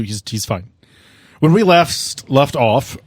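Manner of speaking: usual speaking voice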